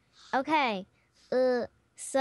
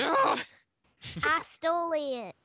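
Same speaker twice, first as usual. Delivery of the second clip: character voice; much slower than usual. Acted. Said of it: "I'm staying in character".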